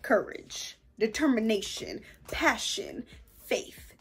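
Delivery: courage, faith and love, whispered; soft whispered list. Real, not acted. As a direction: breathe each value out softly. Listing values softly.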